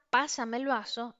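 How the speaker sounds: firm commanding request, like giving an order; bossy order for a glass; authoritative. Shown as a demonstration. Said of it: "con una carga emocional de autoridad".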